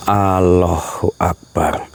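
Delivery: slow, drawn-out invocation; awed exclamation. Real, not acted. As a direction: stretch the words out in awe. (takbir pelan dan panjang)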